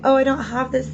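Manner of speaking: mock pouting. Card reader voicing the sad cups figure, mock pout. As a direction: lightly put on a sulk. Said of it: "he's pouting".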